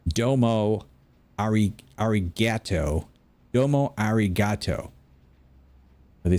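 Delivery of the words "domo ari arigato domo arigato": mock American Southern-accented Japanese. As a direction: mimic Southern beginners saying every vowel. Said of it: "in a southern accent".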